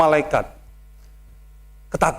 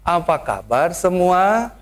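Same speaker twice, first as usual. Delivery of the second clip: gentle Sundanese greeting; slower than usual. Shown as a demonstration. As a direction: ease it out like a polite Sundanese host. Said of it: "Saya berubah". (sapaan halus ala Sunda, pelan)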